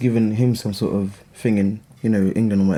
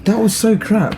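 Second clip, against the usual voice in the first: emphatic dismissal; 10 semitones higher, 4 dB louder, much slower than usual. Real, not acted.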